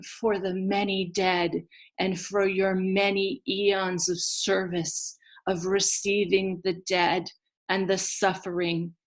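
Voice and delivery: 3 lightly voiced tiny beings, gently consoling; 1 tender consoling voice. Dirt beings console Ereshkigal tenderly.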